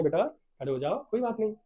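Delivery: softened reassuring request; gentle, loving. Acted. Teacher coaxing a shy pupil to stand, gentle and reassuring. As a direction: coax kindly, with little volume. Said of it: "madam इतने प्यार से बोली है".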